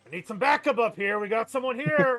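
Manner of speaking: loud, rising yell, hollered from a distance. Voicing a guard calling for backup: NPC yelling for backup. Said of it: "he yells again".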